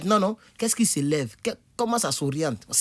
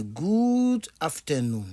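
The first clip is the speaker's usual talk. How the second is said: slow English; much slower than usual. Shown as a demonstration. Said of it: "je suis obligé de dire good afternoon".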